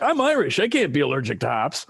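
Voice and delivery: mock outrage, the word Irish jumps way up high; half-joking huff, as if ready to swing; indignant protest. Retelling his indignant protest to the brewmaster, a mock-outraged cry. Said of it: "ready to swing at him".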